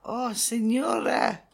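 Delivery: put-on slow, lightly accented servile cabana boy, laughing through it; a giggling, hammed-up Spanish cabana boy. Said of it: "What does a Cabana boy sound like?".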